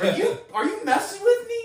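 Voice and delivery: high, loud incredulous question; freaking out. Retold or imitated. Caller questioning the woman on the phone, freaking out. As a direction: demand it in shrieking disbelief. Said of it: "freaking out on the phone".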